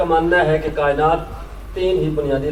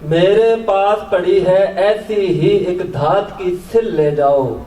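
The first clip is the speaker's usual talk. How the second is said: measured Urdu nazm recital, pauses between phrases; poetry recitation; slower than usual. Acted. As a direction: lift each opening, let the line fall away. Recites own poem to audience.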